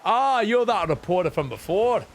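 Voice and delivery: playful voicing of a reporter and a chef; character voices. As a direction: read the characters aloud in put-on voices. Voices game characters' dialogue.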